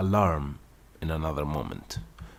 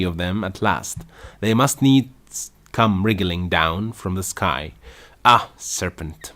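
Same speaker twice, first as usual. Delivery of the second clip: louder and louder into a shriek; rising to a shriek; 3 semitones higher, 7 dB louder than usual. A narrator's reading. Pigeon working itself up at Alice, building shriek. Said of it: "raising its voice to shriek".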